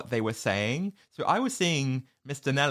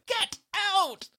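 mock yell. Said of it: "Harriet's like".

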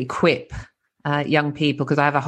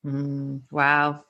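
ordinary talk, nothing marked

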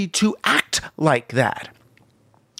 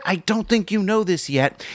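conspiratorial aside; 3 semitones higher than usual. Retold or imitated. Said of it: "like an aside to the guy".

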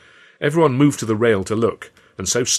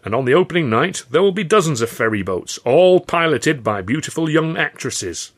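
grand showman Carno; 6 semitones higher, 5 dB louder than usual. Acted. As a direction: relish the last words like an old goat. Carno answers the joke.

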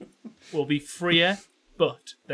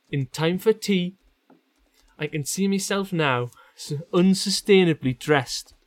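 measured Geordie story reading; reading aloud. Acted. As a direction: read the passage out with care. Reads the passage from the top.

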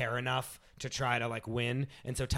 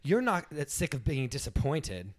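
Tyra Banks building anger; 5 semitones higher than usual. Acted. Host scolding the eliminated contestant, rising anger. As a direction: start stern, build to a high indignant push. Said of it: "So I'm gonna play Tyra Banks".

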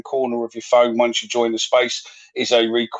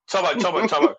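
higher calls that climb each time; calling out; 7 semitones higher, faster than usual. Real, not acted. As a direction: call the name to cut in, pitched up. Host calls out to interrupt guest.

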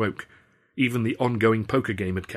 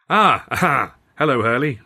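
startled, loud, high false cheer; jumpy, too-loud hello to the husband; caught out; 5 semitones higher, 8 dB louder than usual. A narrator's reading. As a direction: bluster a guilty greeting.

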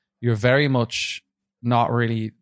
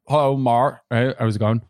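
light Cornish greeting, a bit louder; Cornish accent; 3 dB louder than usual. Retold or imitated. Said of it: "They all have these Cornish kinda accents".

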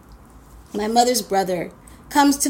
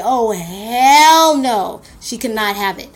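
louder, very slow Oh, hell no; drawn-out refusal; 5 dB louder, slower than usual. Retold or imitated. Parents seeing the coat, loud and drawn-out refusal. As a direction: stretch it out like an outraged parent.

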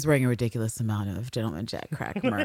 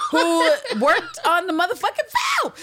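high, loud laughing shout; excited laughing shout; 6 dB louder than usual. Real, not acted. Shouting out a film crew member, loud and laughing.

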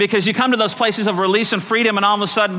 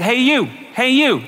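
higher-pitched parrot calling for attention; 5 semitones higher, slower than usual. Acted. Parrot to man in pet shop, calling out. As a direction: call out as a cheeky parrot.

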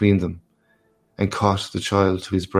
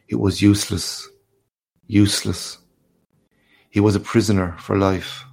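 ordinary delivery, nothing marked

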